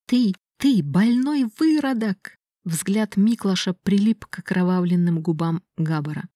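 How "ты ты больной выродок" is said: higher, stammering horror; horrified outburst. Acted. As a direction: spit it out in disgust and fear. Miklash recoils in horror. (испуганный, сбивчивый крик)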